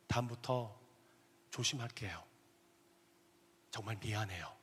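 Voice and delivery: husband humbly apologizing to his wife; sincere apology. Retold or imitated. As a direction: apologize from the heart. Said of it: "주님이 저 안에 진정성도 주시더라고".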